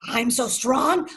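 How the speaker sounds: stubborn pride after a fall; slow boast. Acted. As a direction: drag out the boast, full of himself. Boastful character after falling.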